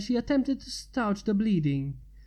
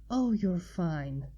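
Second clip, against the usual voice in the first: slower, a touch of relief; relieved sigh; slower than usual. Acted. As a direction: sigh it out gently. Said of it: "she sighed".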